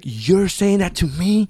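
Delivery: stretched-out incredulous question; retold incredulity. Retold incredulous reply to friend.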